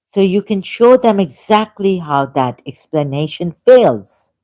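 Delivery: emphatic, measured read-out of a prepared text; reading aloud. Acted. Laying out a debate argument for listeners, emphatic reading.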